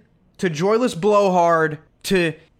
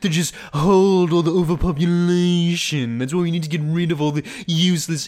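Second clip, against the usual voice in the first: a lightly voiced mock of a lofty royal, yes, yes; a hint of a pompous king lecturing; mocking King Charles; 2 semitones lower than usual. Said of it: "and he talks like this".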